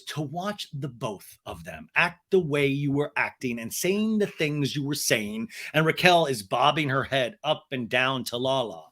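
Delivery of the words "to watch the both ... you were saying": slow, measured retelling; deliberate reproach. Retold or imitated. Lala scolding both men, slow deliberate delivery. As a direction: spell out each word reproachfully. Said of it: "And Lala goes".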